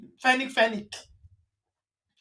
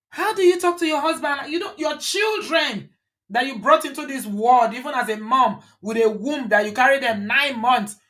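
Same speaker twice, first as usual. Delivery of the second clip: imitating a yell; 2 semitones higher than usual. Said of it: "She will yell".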